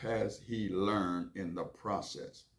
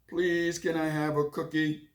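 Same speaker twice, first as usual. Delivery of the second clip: put-on higher, louder pleading child; whiny kid voice; 8 semitones higher, 5 dB louder than usual. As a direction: beg like a little boy wanting a cookie. Child Billy begs mom.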